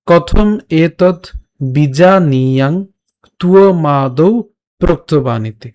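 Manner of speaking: measured Sanskrit shloka with pauses between phrases; verse recitation. Shown as a demonstration. Teacher recites the whole verse from the start, measured recitation. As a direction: recite it phrase by phrase, stretching the syllables. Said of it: "প্রথম থেকে আরেকবার উচ্চারণ করছি".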